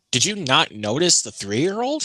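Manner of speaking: retold disbelief, drawn out; incredulous. Employee questioning the ticket seller, incredulous.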